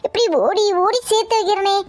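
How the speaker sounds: tearful, self-pitying appeal; mock-tearful lament, rising at the end; put-on weeping. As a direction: plead as if starting to cry. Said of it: "இப்ப எதுக்கு அழுவுற?".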